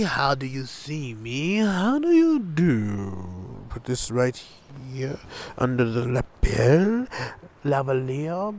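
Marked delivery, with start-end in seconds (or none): 1.6-3.7 slow drawn-out mic check. Shown as a demonstration. Vlogger testing her new lavalier mic, slow and drawn out. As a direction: draw out each word slowly. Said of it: "How do you hear me?".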